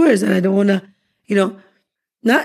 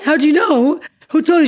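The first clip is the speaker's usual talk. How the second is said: higher-pitched retold surprise; startled questioning; 7 semitones higher than usual. Wife questioning the stranger who knows about her marriage, startled. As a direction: quote yourself taken aback, pitch jumping up.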